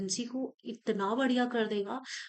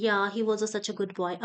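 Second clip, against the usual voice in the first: slow copy of the actor's line; shadowing a movie line; much slower than usual. Shown as a demonstration. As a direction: echo the actor slowly. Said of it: "अब इसने एक ये word बोला". (धीरे से नकल करके दोहराना)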